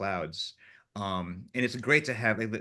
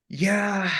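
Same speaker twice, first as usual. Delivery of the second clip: grudging admission; 11 semitones higher, 7 dB louder than usual. Retold or imitated. Gaffer finally admitting the idea was good.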